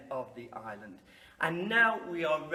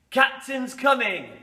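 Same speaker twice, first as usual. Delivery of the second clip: calling out; 6 semitones higher, 8 dB louder than usual. Shown as a demonstration. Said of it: "we'll have a little practice".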